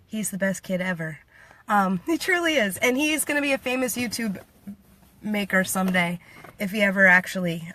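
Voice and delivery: ordinary talk, nothing marked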